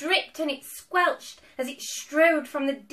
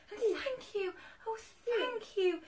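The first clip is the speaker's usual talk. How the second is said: high, soft, heartfelt thanks; grateful cry; 7 semitones higher, 5 dB quieter than usual. A narrator's reading. Witch thanking friends who saved her, grateful. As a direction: gush thanks softly in a high voice. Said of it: "the grateful witch cried".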